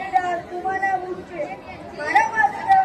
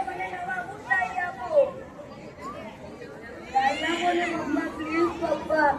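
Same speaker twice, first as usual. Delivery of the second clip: whining plea; 3 semitones lower, 5 dB quieter than usual. Acted. Son whining for new shoes.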